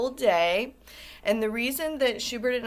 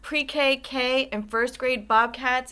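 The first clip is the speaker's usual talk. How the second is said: cheery greeting; 5 semitones higher, 6 dB louder, slower than usual. Real, not acted. Teacher greeting class on video.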